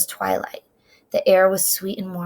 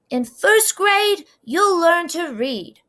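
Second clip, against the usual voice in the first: lightly voiced brother; 10 semitones higher, slower than usual. A narrator's reading. Older brother promises Trisha.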